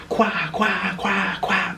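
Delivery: high, squawked bird cries; shrieking birds. Retold or imitated. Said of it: "That's what it sounded like".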